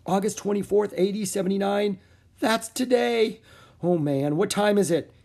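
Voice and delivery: high, loud alarmed realization; boy realizing the volcano is today. A narrator's reading. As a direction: panic dawning. Jack realizes danger today.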